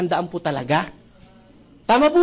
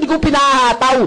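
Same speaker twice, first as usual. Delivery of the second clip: mock inner retort; 7 semitones higher, 6 dB louder than usual. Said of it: "Sa isip ko lang".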